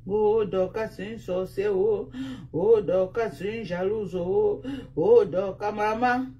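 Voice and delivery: imitating whiners, each "oh" lifted; mock wailing complainers. Streamer mimicking her critics' complaints, mock wailing. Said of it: "Vous pleurez quoi?".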